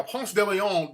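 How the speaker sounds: slow Ponce de Leon, "PONS deh lee-AHN"; proper pronunciation. Shown as a demonstration. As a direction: say Ponce de Leon carefully, each word distinct. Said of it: "that's the proper pronunciation".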